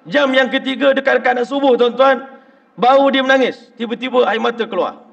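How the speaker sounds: loud, high preaching build-up; rising climax. Real, not acted. Preacher telling the congregation the man finally wept, loud and high. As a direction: drive the story to its peak.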